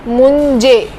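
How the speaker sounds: मुंजे with a j after n; pronunciation demo. Shown as a demonstration. Teacher repeating the word, careful. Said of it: "जैसे मुंजे".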